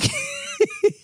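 squeaky mischievous laugh; high mock cackle. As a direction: cackle like a schemer. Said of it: "And she's like".

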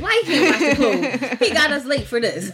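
exasperated complaining. Retold or imitated. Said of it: "You used to be like".

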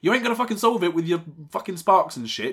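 high, loud exasperated rant; mock telling-off. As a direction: tell off a hothead, hammed-up. Acted telling-off of Fire Girl.

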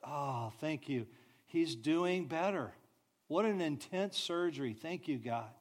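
soft, hushed thanks to God; a soft, grateful whispered-like prayer; quiet relieved prayer. Retold or imitated. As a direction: breathe out thanks after the fear. Relieved parent prays after surgery.

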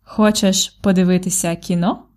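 "Хочеш подивитися кіно?" ending with an upward lift on "кіно"; rising question intonation. Shown as a demonstration. Teacher repeats the model question for learners, rising tune. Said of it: "Ask me again".

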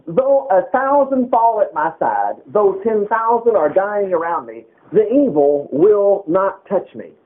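slow, weighty reading of the psalm; scripture reading. Acted. Preacher reading to the saints, slow and weighty. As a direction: lift the promise up slowly.

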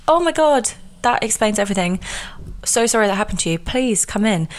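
high, gushing "oh my God", then kindly invite in; mock sympathetic gasp. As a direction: play the shocked, sorry host. Imagined sympathetic reply.

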